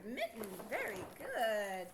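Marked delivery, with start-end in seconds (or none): 0.0-0.5 faster. Shown as a demonstration. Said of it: "Gotta say it faster".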